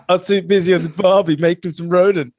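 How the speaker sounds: laughing hammed-up Aussie; mock Australian. As Matt Doran, a laughing mock Aussie brag. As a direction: slap on the Aussie twang, laughing. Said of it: "in the shoes of Matt Doran".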